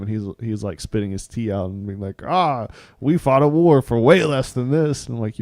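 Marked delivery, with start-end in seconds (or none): 2.2-5.1 lightly voiced indignant Ichabod, slow; a hint of an outraged old-fashioned gentleman. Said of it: "I don't know why that was his voice".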